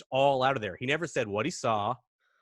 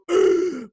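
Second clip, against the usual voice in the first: loud, high sucked-in gasp; frightened gasp; 8 dB louder than usual. Retold or imitated. Kids frozen as the noise stops, frightened gasp. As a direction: gasp sharply in mock terror. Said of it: "And we just go".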